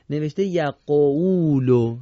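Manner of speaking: یقولو drawn out slowly with recitation voice; slow Quranic reading. Shown as a demonstration. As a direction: read یقولو slowly as in tajwid. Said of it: "چی باید بگیم؟".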